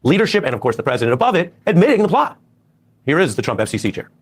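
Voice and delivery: TV news audio from another room; tv through the wall. Real, not acted. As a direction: broadcast bleeding in behind the mic. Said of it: "You guys are saying the T V is loud".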